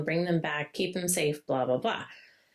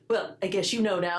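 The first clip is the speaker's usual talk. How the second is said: put-on childish sulk. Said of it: "like a freaking child".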